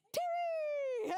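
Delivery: loud, high call across the room. Real, not acted. Speaker calls to Terry in the crowd, loud happy call. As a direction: shout his name to find him.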